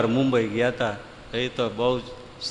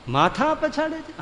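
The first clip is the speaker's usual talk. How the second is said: much higher, slow "પછાડે" in disbelief; astonished echo; 14 semitones higher, slower than usual. Retold or imitated. Disciple repeating the guru's words, high and astonished. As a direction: echo it back amazed.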